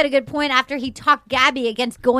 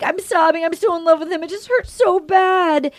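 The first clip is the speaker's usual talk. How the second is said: mock sobbing; 5 semitones higher than usual. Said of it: "she's like".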